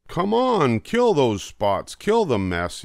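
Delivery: high, loud rallying yell; cats yelling. Acted. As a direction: cheer the troops on with a yell. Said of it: "yelled the cats".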